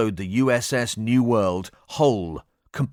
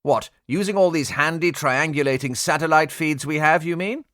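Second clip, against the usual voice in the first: retort; 5 semitones higher than usual. Acted. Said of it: "the pilot retorted".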